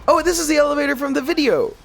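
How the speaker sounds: high, quick delighted exclamation; light up at spotting it; excited recognition. Real, not acted. Recognises elevator from cutscene.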